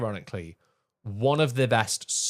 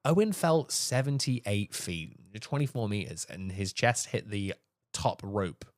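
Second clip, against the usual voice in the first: lower, subdued delivery; solemn account; 4 semitones lower, 4 dB quieter than usual. Real, not acted. Podcaster telling co-host of a wrestler's fatal fall, sombre. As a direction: report the tragedy gravely and quietly.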